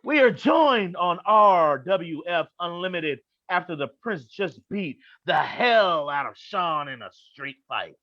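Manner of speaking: ordinary talk, nothing marked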